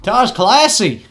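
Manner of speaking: high-pitched little goblin. Acted. Goblin praising the guitar to a bard, high voice.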